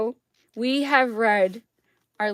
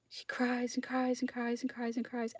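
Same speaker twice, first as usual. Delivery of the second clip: hushed; 4 semitones higher, 9 dB quieter than usual. Real, not acted. Dramatic storytelling.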